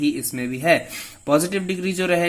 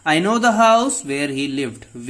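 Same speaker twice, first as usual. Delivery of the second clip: slow example read; 3 dB louder, much slower than usual. Shown as a demonstration. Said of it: "teacher reads example sentence".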